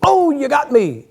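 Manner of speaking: slow, drawn-out death line; a lightly hammed-up gunshot victim; mock dying cowboy. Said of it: "and the guy goes".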